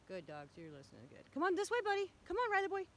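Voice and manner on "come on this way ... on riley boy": high, sing-song coaxing; coaxing dog voice. Real, not acted. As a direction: sweet-talk the dogs along. Coaxing the dogs sweetly.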